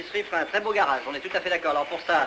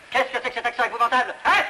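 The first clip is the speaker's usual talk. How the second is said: higher-pitched, scandalised outburst; indignant; 5 semitones higher than usual. Acted. Producer scolding a villager for his accent, indignant. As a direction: pounce on it in outrage.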